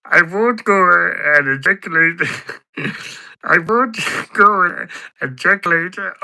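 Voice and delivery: high, laughing mock impression of Pat; imitating Pat. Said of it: "Pat would be like".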